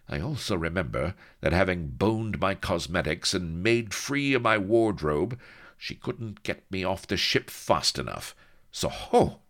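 high, cutting indignation; a lady scoring a point; indignant lady. Acted. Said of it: "said Vanity coldly".

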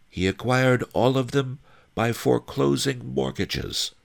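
high-pitched guide's voice; Fat Fu explaining. A narrator's reading. Fat Fu explains how the miser got rich, high voice.

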